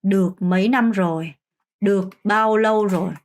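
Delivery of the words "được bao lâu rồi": slow, clear Vietnamese model; slow model phrase. Shown as a demonstration. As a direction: say each word slowly for learners. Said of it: "라고 할 수도 있죠". (천천히 또박또박 베트남어 시범)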